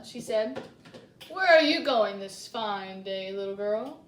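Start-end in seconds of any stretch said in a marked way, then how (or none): 1.3-4.0 wolf asking. Acted. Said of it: "asked the wolf".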